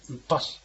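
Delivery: ウパシ said as "upas", vowel dropped at the end; final S only. Shown as a demonstration. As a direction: end ウパシ on a short consonant sound. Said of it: "Sだけの発音です". (ウパシの語尾は母音なしのSだけ)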